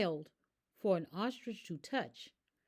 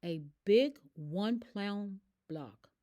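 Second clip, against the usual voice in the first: urgent. Acted. Vet giving urgent advice.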